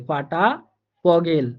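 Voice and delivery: ফগেল with a clear ফ at the start; German Vogel with an F. Shown as a demonstration. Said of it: "ফাও কিন্তু ফ এর মতো করে উচ্চারণ হইতেছে".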